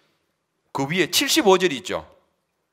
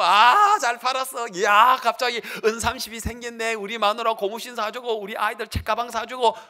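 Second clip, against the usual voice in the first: higher, pleased lightly voiced traitor; mock gleeful Judas; 8 semitones higher than usual. Judas gloating about buying gifts for his family with the money, mock glee. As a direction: gloat over the silver coins.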